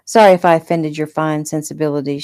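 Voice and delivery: mockingly apologetic; sarcastic. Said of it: "she said sarcastically".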